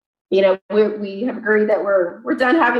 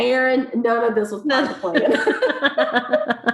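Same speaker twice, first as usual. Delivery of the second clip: slow, amused reassurance through a laugh; laughing husband; 4 semitones higher, slower than usual. Retold or imitated. Husband laughing at his wife in the hospital bed, slow and amused. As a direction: chuckle it out, slowly.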